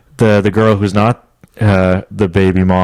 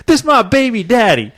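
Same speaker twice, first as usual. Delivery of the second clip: high-pitched girl impression; outraged girl; 13 semitones higher than usual. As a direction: imitate her indignant reveal up high. Girl's reveal, retold.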